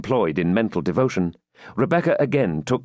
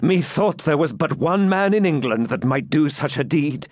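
slightly raised, joyful wonder; admiring knight; 6 semitones higher than usual. Acted. Knight marvels at champion's deed, admiring. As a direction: marvel at the feat.

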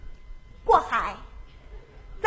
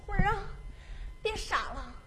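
tender; 2 semitones higher, 12 dB quieter than usual. Acted. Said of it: "深情地对着我说".

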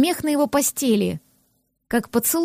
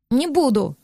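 sulky mutter. Acted. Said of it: "буркнула я".

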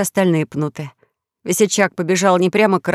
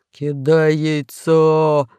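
very slow, rasped "Кидай яйцо!" stretching "кидай"; hoarse drawn-out "Кидай яйцо!"; hoarse croak; 3 semitones lower, much slower than usual. Acted. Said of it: "прохрипел весельчак У".

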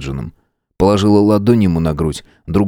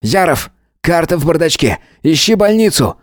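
much higher calls; shouting; 9 semitones higher than usual. A narrator's reading. Matvey shouts at Nick to find the hospital. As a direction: call out orders. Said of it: "крикнул".

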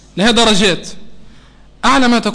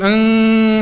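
hummed car engine through the nose; nasal engine buzz like a child's toy car; car engine imitation; much slower than usual. Shown as a demonstration. Teacher imitating a car engine for students. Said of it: "تقلد صوت الكرهبة".

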